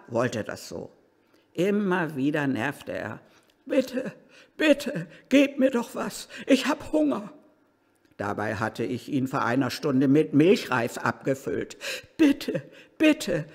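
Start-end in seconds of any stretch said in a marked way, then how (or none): 3.7-7.3 high, whining plea for food; beg, higher, like a hungry old man. Acted. Narrator voicing old Ludwig begging for food, high whine. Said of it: "jammerte er". 12.2-13.5 put-on high, whiny old man's bitte bitte; whining plea. Old Ludwig begging his carer, high whining. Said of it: "jammerte er".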